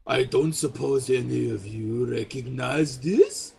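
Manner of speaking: feigned ignorance, knowing. Acted. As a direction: ask as if you already know the answer. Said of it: "says it in this sort of tone that indicates he knows exactly what he's looking at".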